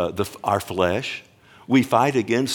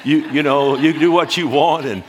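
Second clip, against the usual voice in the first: louder, higher and pressing; raised voice; 4 semitones higher, 4 dB louder than usual. Real, not acted. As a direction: push it up with energy. Preacher ribbing vanity, rising voice.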